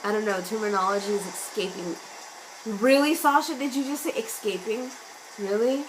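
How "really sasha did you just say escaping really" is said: playful disbelief at herself; self-mocking. Real, not acted. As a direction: tease yourself for the slip. Mocking her own word slip.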